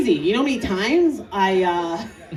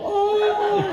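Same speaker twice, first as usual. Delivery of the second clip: mock old man groan; 11 semitones higher than usual. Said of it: "That's what an old dude sounds like".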